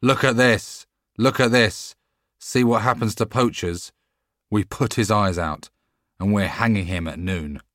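loud, high crowd-rousing call. Acted. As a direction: hawk it to the whole market square. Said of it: "calling out as he went".

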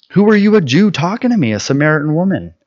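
high, wary Samaritan woman, pushing back; apprehensive woman. Retold or imitated. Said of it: "she's seriously apprehensive".

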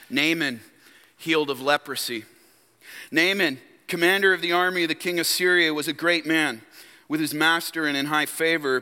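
measured, formal Bible reading; Scripture reading. Real, not acted. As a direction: read the passage aloud evenly to a congregation. Reads the Scripture passage aloud.

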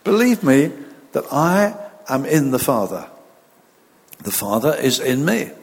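measured, solemn Bible reading; scripture reading. Acted. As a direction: read the verses with weight and pauses. Reads scripture aloud.

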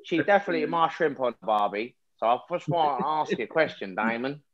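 put-on jokey Australian accent, slipping as it goes; botched Australian accent. Joking with friends about shrimp on Barbie, shaky Australian accent. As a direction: attempt an Aussie accent and lose it to laughter. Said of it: "The accent started strong".

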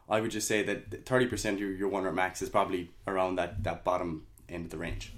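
wheezy, tight-chested speech. Real, not acted. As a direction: talk through a wheezy chest. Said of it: "I'm really wheezy in my chest".

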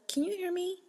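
firm calm clerk. Shown as a demonstration. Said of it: "hit you with the".

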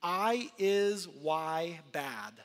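slow, halting, word by word like a speech device; mild imitation of a child's device speech. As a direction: spell it out slowly as if typed on a device. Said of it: "he literally types out".

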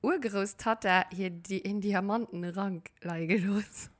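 whispering. Real, not acted. Whispered aside.

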